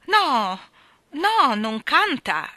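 high, loud booming lady. Acted. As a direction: boom it down the stairs like a bossy spinster. Miss Andrew insisting.

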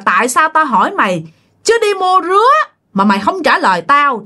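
a hint of a looming forest spirit growling the question; booming ghost voice. Giant ghost in the forest questions the frightened man, mild booming menace. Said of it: "ổng nói cái giọng nghe thấy ghê lắm, nghe nó ồm ồm".

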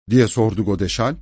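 ordinary delivery, nothing marked

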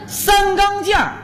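三钢件儿 said with thick erhua, garbled like a bone in the mouth; mispronounced. Pretend. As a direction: slur 三钢件儿 as if chewing a bone. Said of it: "你这嘴里有骨头是怎么着".

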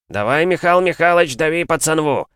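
loud, high fan cheer; cheering shout. Acted. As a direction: cheer him on from the sidelines. Men cheering from the gazebo.

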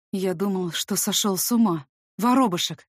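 man's voice, breathed with hope; hopeful exhale. Acted. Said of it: "Выдыхает с такой надеждой".

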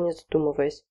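plain reading voice

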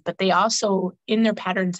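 slightly throaty, needs clearing; frog in throat. Real, not acted. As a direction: talk with a frog in your throat. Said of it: "frog in my throat".

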